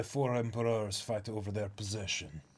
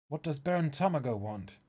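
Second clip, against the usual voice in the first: much higher, earnest and urgent strategist; a higher, eager voice laying out a risky plan; higher character voice; 4 semitones higher than usual. Acted. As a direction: pitch up and plead the plan with urgency. The high character asks.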